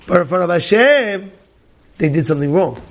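ordinary talk

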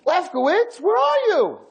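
put-on old man calling his friend across the nursing home room. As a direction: call out for a friend who doesn't answer. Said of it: "he starts screaming across the room".

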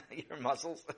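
"Your muscles?" asked through a laugh, rising at the end. Acted. Brother mocking Sammy's muscles, laughing disbelief.

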